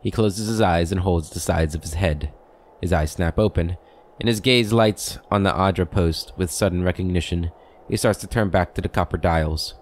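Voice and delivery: measured game-book narration; story narration. A narrator's reading. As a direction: read out the scene like a storyteller. Reads game's scene description.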